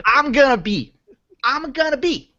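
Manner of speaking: Long Island wise-guy storyteller; Joe Pesci. Acted. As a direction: play a touchy, challenging mobster with a Long Island accent. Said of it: "a pretty stellar Joe Pesci thing".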